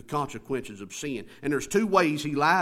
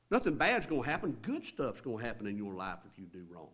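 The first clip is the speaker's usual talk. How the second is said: tempting devil; 4 semitones lower, 5 dB quieter than usual. Acted. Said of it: "he lies by saying good things will happen".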